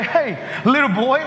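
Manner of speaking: lightly voiced giant sneering at the boy; taunting giant. Giant taunting little David, lightly sneering. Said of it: "the giants come to look at David and say".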